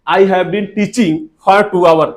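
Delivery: very slow, careful English, word by word; slow model sentence. Shown as a demonstration. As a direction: drag it out slowly for the class. (बहुत धीरे-धीरे बोलकर)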